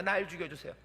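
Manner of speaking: soft, hushed plea to be taken; quiet plea. Pretend. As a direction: beg God quietly to die. Moses pleading quietly.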